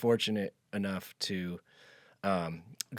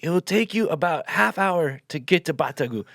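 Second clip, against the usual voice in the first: raised, high voice carrying over distance; calling out directions; 7 semitones higher, 5 dB louder than usual. Retold or imitated. Farmer to traveler walking away, calling out. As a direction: holler it to someone down the road.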